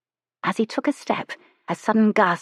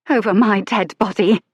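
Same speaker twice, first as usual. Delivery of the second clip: louder, defiant lady; 3 semitones higher, 5 dB louder than usual. Acted. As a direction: refuse him flatly. Lady defies Lucian.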